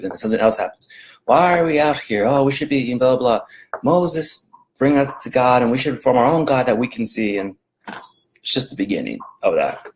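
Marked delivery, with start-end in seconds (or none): 1.2-7.4 whiny Israelites. Retold or imitated. Mimicking complaining Israelites.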